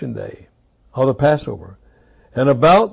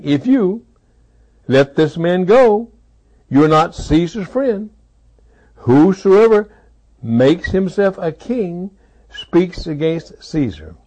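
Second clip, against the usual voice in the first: menacing crowd; 4 semitones higher, slower than usual. Acted. Crowd's threat voiced in sermon.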